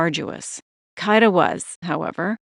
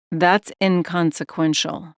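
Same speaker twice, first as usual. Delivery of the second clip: unnerving caller voice; slower than usual. Acted. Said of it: "The unnerving voice continued".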